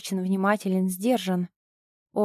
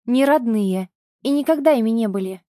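loud, fast angry outburst; mother snapping at ex-husband; losing control; 5 dB louder than usual. Acted. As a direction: rush it out in fury. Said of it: "теряя контроль над собой".

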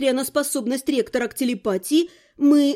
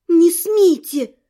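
loud, slow angry warning; seething; 3 semitones higher, 7 dB louder, much slower than usual. A narrator's reading. Frightened heroine warns off the mind-reader, seething. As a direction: force it out slowly, with anger. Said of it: "процедила я".

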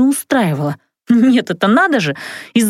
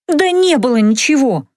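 shouted out; 4 semitones higher than usual. Acted. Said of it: "не выдержав, выкрикнула я".

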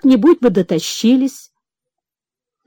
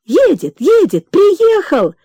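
rising, louder alarmed cry; frightened shouts; 8 semitones higher, 3 dB louder, slower than usual. Acted. Servants rushing in, crying out the master has come. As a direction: servants bursting in yelling. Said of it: "кричали они".

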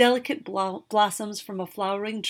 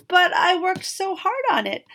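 mock crestfallen; 11 semitones higher, 7 dB louder than usual. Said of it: "pretending to be crestfallen".

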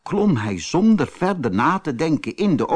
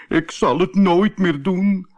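high-pitched begging cry; put-on pleading voice, raised in pitch; 5 semitones higher, 4 dB louder than usual. A narrator's reading. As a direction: beg desperately for forgiveness. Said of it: "smeekte om vergiffenis".

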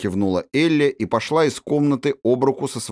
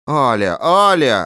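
louder, rising reproach; scolding call; 4 semitones higher, 6 dB louder, slower than usual. A narrator's reading. Governess checking the spoiled princess, calling her name louder. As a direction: stop the child short. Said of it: "остановила девочку мадемуазель Софи".

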